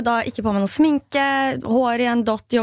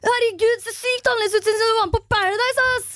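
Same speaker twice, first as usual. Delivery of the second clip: high, put-on boy voice, astonished; teen boy gushing; 9 semitones higher than usual. The speaker voicing the boy on her looks since Paradise, high. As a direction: gush like a tactless teen, much higher. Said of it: "bare sånn".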